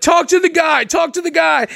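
put-on high, pushy drunken insistence; imitating drunk caller. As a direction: pester them like a hammed-up drunk. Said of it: "the problem with drunk people when they call you".

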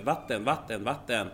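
lightly voiced small child repeating for dad; insistent toddler. Father imitates his son translating for him, lightly voiced insistent toddler. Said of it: "if he says something in Swedish".

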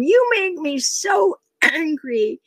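high, drawn-out exasperated outburst; mock yell. Mother telling off her twelve-year-old, mock angry yell. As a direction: imitate an angry mother's yell without much added volume. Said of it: "I was yelling at".

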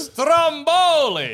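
high, drawn-out STROMBOLI; emphatic repeat. Real, not acted. Repeats name after being asked who.

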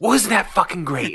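bitter mock cheer, loud; sarcastic shout. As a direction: snap it back sarcastically. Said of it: "And I go".

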